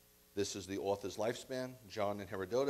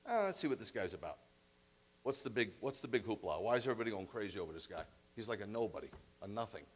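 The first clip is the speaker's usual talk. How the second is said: scoffing Pilate; 2 semitones lower, faster than usual. Acted. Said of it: "Pilate takes Yeshua into the Praetorium".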